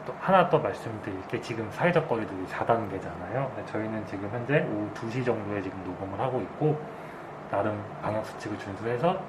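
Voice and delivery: talking through a face mask; muffled speech behind a mask. Real, not acted. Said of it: "마스크를 쓰고 있어가지고 발음이 평소보다는 조금 다르게". (마스크 때문에 먹먹한 목소리)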